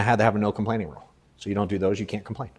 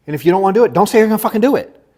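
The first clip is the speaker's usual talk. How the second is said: loud and forceful, pitch raised; emphatic; 8 semitones higher, 6 dB louder, faster than usual. Real, not acted. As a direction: hammer the rule home. Emphatic rule to the audience.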